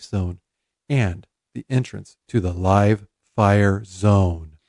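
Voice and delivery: soft, slow golf announcer voice; hushed so you won't disturb the putt; Brandishire egg voice. Acted. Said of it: "you're using your golf announcer voice, like, kind of soft".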